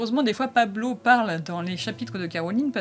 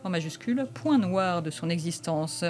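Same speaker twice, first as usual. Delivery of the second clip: blurb narration. Acted. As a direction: read the back cover like a dramatic teaser. Reads the back-cover blurb aloud.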